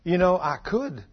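low, soft voice from God; hushed, understated divine warning; little voice. Retold or imitated. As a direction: imitate a still, small voice speaking quietly. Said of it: "I heard this little voice".

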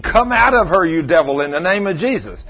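mock scream at a devil; retold screamed command. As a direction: cast it out forcefully, without fully screaming. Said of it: "I'm screaming".

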